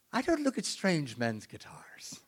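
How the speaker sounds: slow, whispery put-down; imitating a woman coolly turning down a stranger; mock prim rebuff. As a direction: say it slowly with very little voice. Acting out woman rebuffing him.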